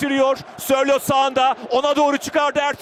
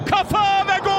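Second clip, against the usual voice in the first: screaming football commentator; 5 semitones higher than usual. Real, not acted. Goal call in live commentary.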